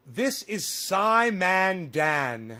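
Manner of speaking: put-on slow, lightly English-accented intro; a hint of an English accent, drawn out; mild English accent, slowly announcing a name; slight English accent. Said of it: "I say that with my slight English accent".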